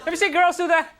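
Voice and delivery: loud, high, fed-up outburst; exasperated shout. Retold or imitated. Comic yelling back at his odd date, exasperated. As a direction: blurt it out in disbelief.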